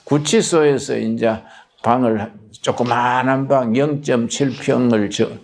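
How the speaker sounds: ordinary delivery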